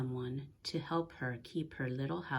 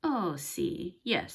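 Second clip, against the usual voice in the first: put-on higher, eager young helper saying yes; Big Anthony agreeing; 5 semitones higher, 4 dB louder, much slower than usual. A narrator's reading. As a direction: agree quickly and a bit too eagerly. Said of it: "said Big Anthony".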